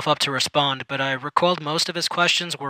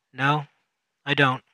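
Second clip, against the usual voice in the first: flat. Acted. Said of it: "I said flatly".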